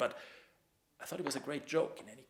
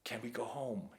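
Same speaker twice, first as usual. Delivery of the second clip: put-on small frightened boy; 5 dB quieter than usual. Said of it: "sounding like a small boy afraid".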